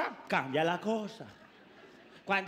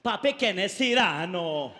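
put-on girlfriend asking; 3 semitones lower, 4 dB louder, slower than usual. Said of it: "la pelada".

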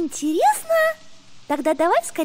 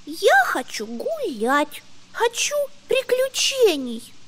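whiny; slower than usual. Acted. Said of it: "закапризничала Бунька".

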